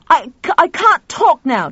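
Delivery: loud, high, stammering refusal; flustered phone brush-off. A narrator's reading. Cuts short a screaming caller.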